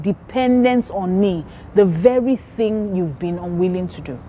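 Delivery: slow, solemn Bible reading; scripture reading. Acted. Preacher reading Isaiah to the congregation, slow and solemn. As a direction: read the verses slowly and weightily.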